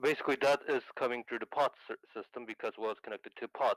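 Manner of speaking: carbon mic. Real, not acted. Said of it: "you do sound like a phone".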